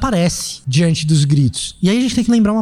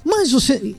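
tender, caring voice; 7 semitones higher, slower than usual. Retold or imitated. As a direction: ask it kindly, with affection in the voice. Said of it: "sabe o cara que tem carinho na voz?".

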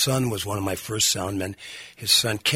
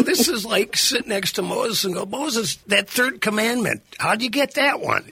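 laughing; 11 semitones higher, 4 dB louder than usual. Retold or imitated. Laughing mock awe about Moses.

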